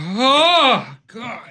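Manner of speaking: tearful voice. Reacting to something painfully spicy while crying. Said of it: "I'm cry-".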